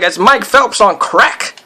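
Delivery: hammed-up Skeletor-like delivery; lightly voiced cartoon character; cartoon villain voice. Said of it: "That, that voice seems to be coming back".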